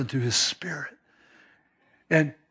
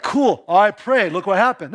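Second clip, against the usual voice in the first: self-focused; 4 semitones higher, 5 dB louder than usual. Retold or imitated. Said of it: "is it to be like".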